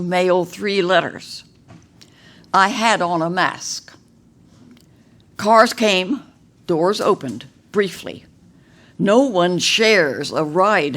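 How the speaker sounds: measured poem reading with deliberate pauses between phrases; poetry recital. Acted. Poet reads own pandemic poem to an audience, measured recital. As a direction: recite formally, lifting phrase openings and setting each phrase apart.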